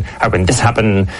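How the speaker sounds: this lightly lifted; stress on this. Shown as a demonstration. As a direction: stress the word this. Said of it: "put the emphasis on a different word".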